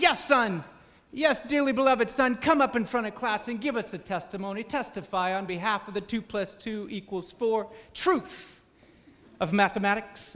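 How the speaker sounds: a hint of a pulpit voice; lightly preacher-like. Evangelist teacher invites student to give testimony. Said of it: "role-playing as if an evangelist".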